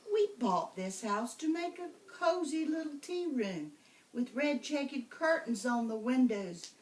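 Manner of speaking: lightly voiced mother, sweet and hopeful; a hint of mother. Mother telling the witch about the tea room. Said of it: "now spoke to Old Black Witch".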